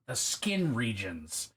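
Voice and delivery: "The skin regions" said slowly, each word dwelt on; slow, weighty repeat. Shown as a demonstration. Repeating her own phrase slowly for comic effect.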